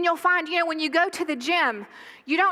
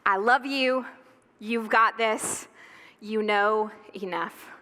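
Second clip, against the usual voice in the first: tender reassurance; 5 semitones lower, slower than usual. Acted. God's thought toward us read from a book, tender reassurance. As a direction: reassure them gently and unhurriedly. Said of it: "What God is already thinking about us".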